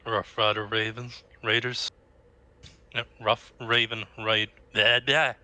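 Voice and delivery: stumbling over "Rough Raven Raid-", giving up on "blah, blah"; tongue-tied. Real, not acted. Player naming the bandit group, tongue-tied on "Rough Rider Ravens". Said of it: "I'm getting tongue-tied".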